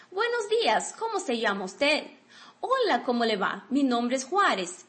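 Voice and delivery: clear, careful reading of a Spanish dialogue for learners; dialogue read aloud. Shown as a demonstration. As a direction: read both parts of the conversation as a model. (leitura modelo do diálogo)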